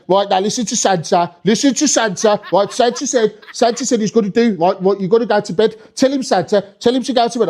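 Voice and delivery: put-on insistent parent in a Birmingham accent. Birmingham parent telling a kid to listen to Santa, Brummie accent. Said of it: "they were proper Brummie".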